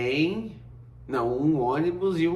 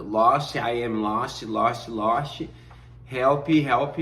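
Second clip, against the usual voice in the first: desperate broken English, calling out; pleading for help; 4 dB louder, much slower than usual. Retold or imitated. Lost newcomer begs the neighbour for help, calling out.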